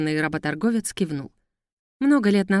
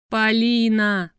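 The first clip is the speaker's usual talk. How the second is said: drawn-out, slow, louder moan of the name; 4 semitones higher, 4 dB louder, much slower than usual. Acted. Manager to heroine, a drawn-out despairing moan. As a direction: groan her name in despair. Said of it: "простонал Мулат".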